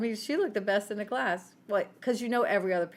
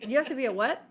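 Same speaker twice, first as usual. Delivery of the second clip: rising, louder disbelief; 5 semitones higher, 4 dB louder, faster than usual. Retold or imitated. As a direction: mom hearing the news too late. Mom hearing pilgrim.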